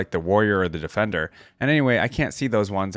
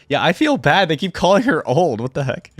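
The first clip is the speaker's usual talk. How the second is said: indignant aside; 6 semitones higher, 5 dB louder than usual. Real, not acted. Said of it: "reader's own reaction".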